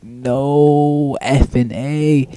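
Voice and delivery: drawn-out, dragged words of disbelief; slow, weary protest; exasperated groan. Retold or imitated. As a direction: stretch it out in mock despair. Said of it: "and I'm like".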